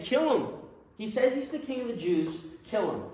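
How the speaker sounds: very high, loud screaming demand; furious mob yell. Acted. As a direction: scream it like a crowd out for blood. The crowd demanding crucifixion.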